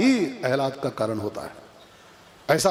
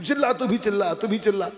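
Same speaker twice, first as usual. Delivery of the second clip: insistent wife; 6 semitones higher than usual. Retold or imitated. Wife keeps insisting at gunpoint.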